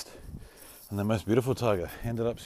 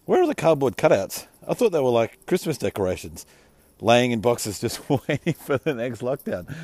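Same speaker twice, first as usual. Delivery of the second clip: reading a tweet aloud; 3 semitones higher, 6 dB louder than usual. Retold or imitated.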